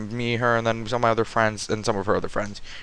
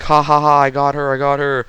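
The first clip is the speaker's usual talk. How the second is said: mock villain gloating; lightly acted cartoon kidnapper's laugh and boast; Bowser; 4 dB louder than usual. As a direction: crow like a game villain, half in earnest. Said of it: "going Bowser".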